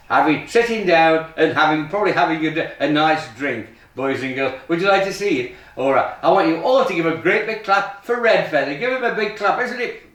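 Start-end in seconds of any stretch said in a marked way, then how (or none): 1.9-10.0 put-on kids party magician. Kids magic show patter.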